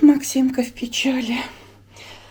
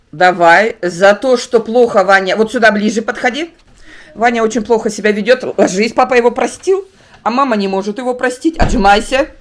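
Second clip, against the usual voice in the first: mock stern; 7 dB louder than usual. Playful punishment of son.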